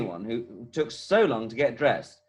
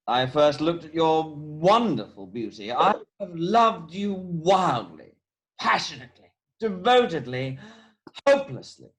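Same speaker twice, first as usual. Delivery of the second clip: passionate declaration; 2 semitones higher than usual. Acted. Passionate proposal to Cecily.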